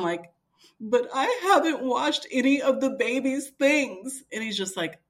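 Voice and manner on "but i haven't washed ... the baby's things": high, loud wail with a laugh in it; mock panicked protest. Wife told to leave for hospital, mock panicked protest. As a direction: act out your own fretting, hammed-up.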